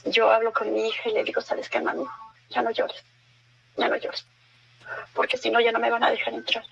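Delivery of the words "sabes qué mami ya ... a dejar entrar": put-on calm the child tenderly; tender soothing. Mother soothing blind daughter.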